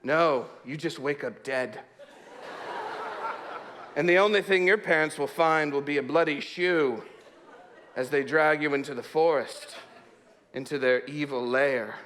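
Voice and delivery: spooky campfire tale. Retold or imitated. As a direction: spin it out like a scary campfire story. Retelling a scary campfire tale to Reed.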